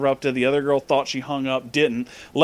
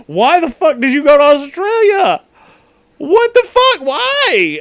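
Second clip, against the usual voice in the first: shrieking; 13 semitones higher, 8 dB louder than usual. Retold or imitated. Retelling own yelling at friend.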